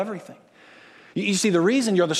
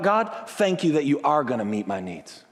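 lower, calm thanks; grateful prayer; 3 semitones lower than usual. Shown as a demonstration. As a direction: thank God with settled confidence.

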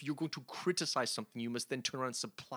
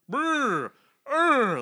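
dopey grunts; 12 semitones higher, 11 dB louder than usual. Retold or imitated. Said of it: "like he has some brain injury".

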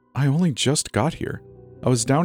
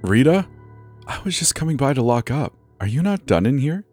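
higher-pitched Kiwi manager; light Kiwi accent, questioning; 8 semitones higher than usual. Acted. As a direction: speak as a New Zealander, high-voiced. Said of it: "I knew that Kiwi accent anywhere".

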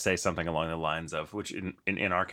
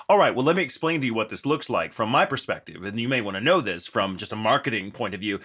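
a touch louder, assertive explaining; a hint of stern authority; firm pushback voice; 4 dB louder than usual. Shown as a demonstration. Host pushing back at customer service, firmly assertive. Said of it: "it becomes this voice".

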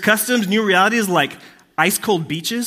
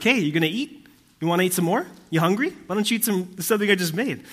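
pushy grandma offering food; guilt tripping grandma; 3 semitones higher than usual. Retold or imitated. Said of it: "keep hammering you".

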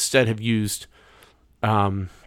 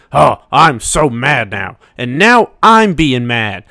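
slow, loud, hammed-up anger, climbing higher; mock mad rant; 3 semitones higher, 5 dB louder than usual. Shown as a demonstration. Testing the mic with a fake mad rant, loud and slow. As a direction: pretend to be furious into the mic. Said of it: "talking into it like this".

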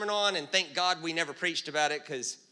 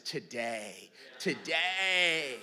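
Jesus' gentle words; 5 semitones lower, 5 dB quieter, much slower than usual. Retold or imitated. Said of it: "and he says".

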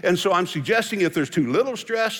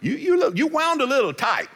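loving spouse; 5 semitones higher than usual. Retold or imitated. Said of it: "and they'll say".

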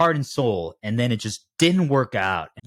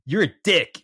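high, playful pretend insult; mock attack; 8 semitones higher, 3 dB louder than usual. Host pretends to go at guest Michael, mock attack. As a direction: go at them in jest, pitched up. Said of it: "if I just started going at you".

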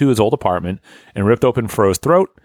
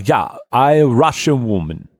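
mock Russian woman; 3 semitones higher, slower than usual. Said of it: "hard to do a female Russian accent".

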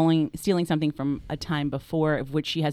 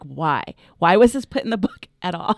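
exasperated demand; 5 dB louder than usual. Retold or imitated. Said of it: "And I'm like".

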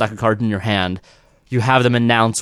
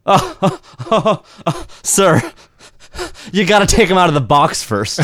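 mocking magician; 7 semitones higher than usual. Magician mocks the volunteer who kept the box on. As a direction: play the smug magician catching the volunteer out. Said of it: "all do this".

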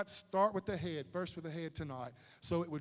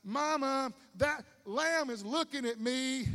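mock child; 7 semitones higher, 4 dB louder, slower than usual. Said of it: "It's like".

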